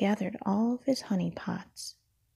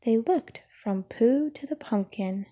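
whispered bedtime story. A narrator's reading. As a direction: breathe the story out like an ASMR bedtime read.

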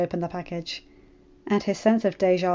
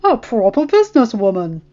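smiling; 8 dB louder than usual. Acted. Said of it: "John said with a huge smile".

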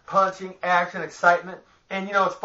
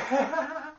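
wheezing laugh; 9 semitones higher, 6 dB quieter than usual. Real, not acted. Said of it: "If I'm laughing like this".

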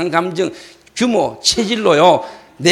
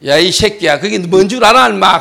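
loud, cursing reprimand; angry scolding; 6 dB louder than usual. Retold or imitated. Pastor scolds chocolate thief, loud angry rebuke. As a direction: tear into the culprit. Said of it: "내가 소리 지르고 막 그러다가".

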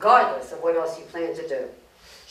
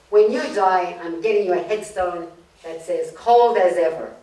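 mock yell; 4 dB louder than usual. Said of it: "The husband yells".

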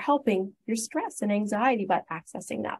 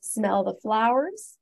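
slow demo; 2 semitones higher, slower than usual. Shown as a demonstration. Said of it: "breathe in through our nose".

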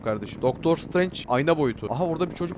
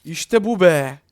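loud, higher victory cheer; triumphant cheer; 4 semitones higher, 10 dB louder, much slower than usual. Real, not acted. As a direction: celebrate the escape out loud. Escaping through the window. (yüksek sesle sevinç çığlığı)

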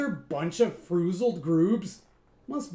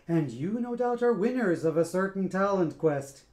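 louder, lightly voiced sneering boss; mocking; 3 semitones higher, 5 dB louder than usual. Scat mocks the band, loud sneering welcome. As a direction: sneer at them with fake welcome. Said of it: "a mocking bow".

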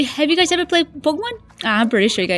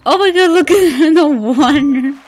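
louder, amused outburst breaking into laughter; laughing; 5 dB louder than usual. Real, not acted. Player laughing at slimes in the water, amused. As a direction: laugh through the words.

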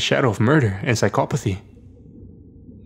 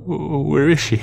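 raised, higher-pitched anguished call; crying out; 4 semitones higher, slower than usual. A narrator's reading. Father calling into the woods for his daughter, crying out. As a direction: call it out, urgently searching. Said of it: "Aberdeen cried to the quiet afternoon".

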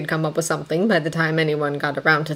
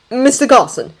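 tentative, higher-pitched address; hesitant; 5 semitones higher, 4 dB louder than usual. A narrator's reading. Servant raises a worry with his superior, hesitant. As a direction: venture the name uncertainly. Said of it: "Thomas said hesitantly".

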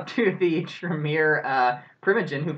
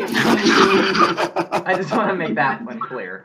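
teasing emphasis; 5 semitones higher, 7 dB louder, much slower than usual. Real, not acted. GM teasing the player.

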